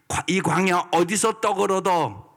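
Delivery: a preacher acting out bold trust; confident declaration of faith. Shown as a demonstration. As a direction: proclaim God's provision boldly. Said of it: "이래야지".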